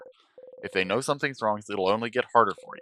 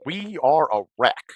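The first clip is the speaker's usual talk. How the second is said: louder, higher and slow; despairing outburst; 5 semitones higher, 7 dB louder, slower than usual. Acted. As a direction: let the despair spill out slowly. Emotional outburst after calming.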